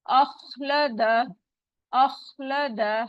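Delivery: अखलद with a heavy, full kha. Shown as a demonstration. Teacher showing the heavy kha in अखलद. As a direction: give अखलद a thick kha. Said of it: "खा मोटा है".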